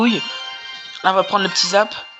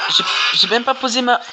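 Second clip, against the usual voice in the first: high panicked shout; panicking gamer; 5 semitones higher than usual. Real, not acted. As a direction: yell it in sudden alarm. Counterattack catches him off guard.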